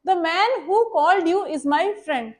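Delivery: The man who called you is my friend, read slowly word by word; slow, careful dictation of the example. Shown as a demonstration. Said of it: "मैंने एक example लिखी है".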